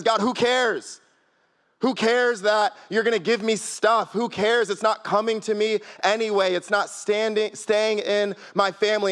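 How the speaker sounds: voicing a frustrated objection; exasperated complaint. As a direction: complain to God, mildly exasperated. Acting out Abram's complaint to God.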